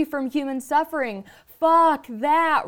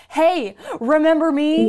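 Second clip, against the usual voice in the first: mock menacing threat; 3 semitones higher, 4 dB louder, slower than usual. Pretending to show up at a jerk's house, menacing. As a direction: lean in like you've come for revenge. Imagined threat to road rager.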